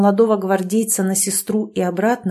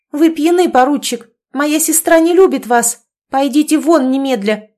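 higher and louder, stern scolding; stern threat; 6 semitones higher, 6 dB louder than usual. Acted. Young sister orders the drunk lieutenant away, stern and loud. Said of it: "и грозно заявила".

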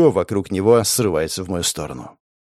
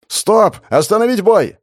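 high, loud call to stop; the second rushing in to stop the fight; urgent shout; 10 semitones higher, 5 dB louder than usual. Acted.

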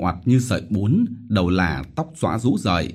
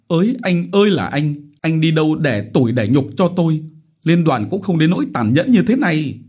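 higher, keening lament; loud wailing lament; 8 semitones higher, 4 dB louder than usual. Acted. Widow Vít wailing over taxes, loud lament. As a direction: wail to heaven and the dead husband. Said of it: "Chị vẫn bù lu bù loa".

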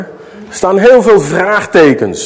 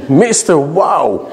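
mock nickname; 3 semitones lower, slower than usual. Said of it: "Daar komt hij".

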